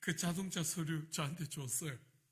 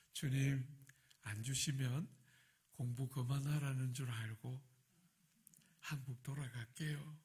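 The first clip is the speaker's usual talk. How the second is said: utterly deflated; 3 semitones lower than usual. Retold or imitated. Pastor retelling his third prayer to God, dispirited. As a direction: give up, energy draining to the end. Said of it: "이렇게 풀이 다 죽었잖아요".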